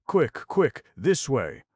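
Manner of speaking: high, loud urgent shout. A narrator's reading. Harvey Deacon to the group, an urgent shout. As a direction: shout directions. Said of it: "Harvey Deacon shouted".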